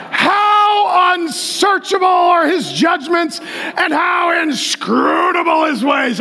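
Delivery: slow, drawn-out shouted reading; exuberant scripture declamation. Shown as a demonstration. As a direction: stretch the big words in awe.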